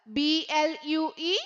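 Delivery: letter by letter, very slow; slow spelling drill. Shown as a demonstration. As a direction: spell each letter out for the class. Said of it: "നമ്മൾ പഠിച്ച വാക്കുകൾ ഏതൊക്കെയാ?".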